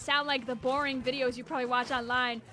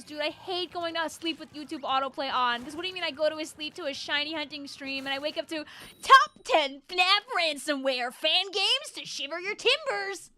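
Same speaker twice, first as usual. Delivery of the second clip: chat message voice; 5 dB louder than usual. Retold or imitated. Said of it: "I'll do that voice".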